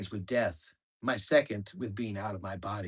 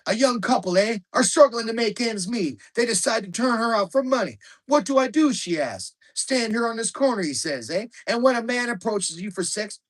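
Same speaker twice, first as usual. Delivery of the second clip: loud, high rowdy Canadian guy telling a dirty joke, eh; thick Canadian accent; 9 semitones higher, 7 dB louder than usual. Retold or imitated. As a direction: ham up a thick Canadian accent, much higher and louder. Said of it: "in thick Canadian accents".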